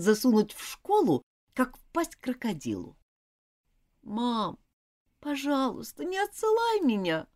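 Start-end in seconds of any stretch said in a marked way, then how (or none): 4.0-7.3 put-on high begging girl; pleading. A narrator's reading. Girl begs mother not to send her off, pleading. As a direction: plead not to be sent away. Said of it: "взмолилась Элизабет".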